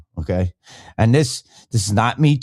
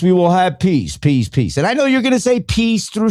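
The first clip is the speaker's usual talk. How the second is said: Trump impression; 9 semitones higher than usual. Mocking Trump's promise to end wars, in a high put-on voice. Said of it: "And Trump said, what?".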